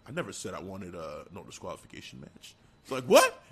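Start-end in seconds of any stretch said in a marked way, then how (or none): 0.1-2.5 low menacing Roman. Acted. 3.1-3.4 shocked squeak. Acted. Heyman's shocked reaction voiced.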